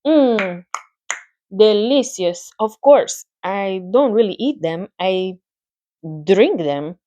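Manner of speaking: a touch thinner and sweeter spider voice; thin, pleasant voice. Acted. Charlotte tells Wilbur she drinks blood, thin and pleasant. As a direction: savour the word blood sweetly. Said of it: "her pleasant, thin voice grew even thinner".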